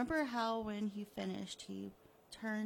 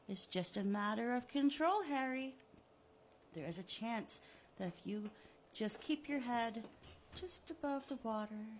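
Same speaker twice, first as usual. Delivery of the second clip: gloating villain. Acted. Killer taunting the buried Harry, smug and mocking. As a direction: taunt him like a cat with a mouse.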